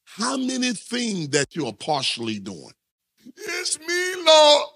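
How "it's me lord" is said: high, cracking, tearful plea to the Lord; mock tearful prayer. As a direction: ham up a weepy believer begging God. Mock tearful believer praying high.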